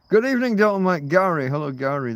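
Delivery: high, loud, fast hello to chat; cheery shout-out to a chat regular; excited greeting. Real, not acted. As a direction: burst out welcoming the viewers.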